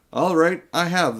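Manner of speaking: loud, defiant outburst. A narrator's reading. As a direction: blurt it out loudly, not caring who hears. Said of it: "said Diggory in a much louder voice".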